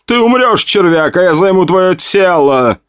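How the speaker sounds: high, menacing villain shout. A narrator's reading. The Asian swordsman screams threats at the hero. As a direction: threaten him at full voice. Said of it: "прокричал мужчина".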